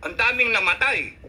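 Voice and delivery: tearing into the president in real anger; angry rant. Real, not acted. Vlogger furious at the president, angry rant. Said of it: "gigil ako".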